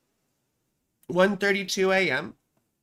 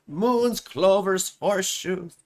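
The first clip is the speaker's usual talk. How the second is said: bad Lucky Charms leprechaun accent, pitched up a little; terrible mascot accent; slower than usual. Streamer reprising the cereal ad for laughs, terrible leprechaun accent. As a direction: list them in a badly faked leprechaun accent. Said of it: "That's a terrible accent".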